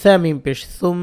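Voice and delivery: "সুম" with a long nasal m; ghunnah. Shown as a demonstration. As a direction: spell "ثا ميم পেশ সুম", humming the final m. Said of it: "গুণনা করব".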